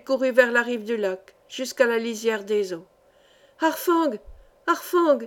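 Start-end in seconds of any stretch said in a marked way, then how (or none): 3.6-5.2 high, clear cry of a name; lifted, ringing call without much force; clear-voiced call. A narrator's reading. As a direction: call the bird from afar. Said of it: "cria-t-elle d'une voix claire".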